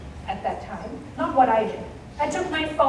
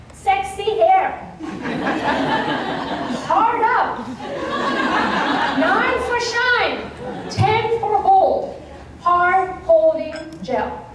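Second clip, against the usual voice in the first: slow, drawn-out reading of each product name; deadpan label reading; 5 semitones higher, 3 dB louder, much slower than usual. Acted. Reading husband's gel labels to the audience, slow deadpan. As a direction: let each ridiculous label land slowly.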